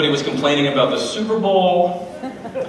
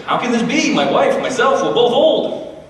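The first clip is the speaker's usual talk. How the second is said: put-on higher, slowing incredulous old man; doubtful old priest; 6 semitones higher than usual. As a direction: protest like a bewildered old husband. Zechariah doubting the angel.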